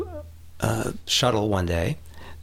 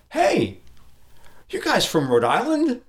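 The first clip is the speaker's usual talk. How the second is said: higher mock Rhode Island accent, laughing at the end; imitating Rhode Island accent; 12 semitones higher, slower than usual. The shuttle driver calling out in a mock Rhode Island accent. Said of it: "With that distinctive accent".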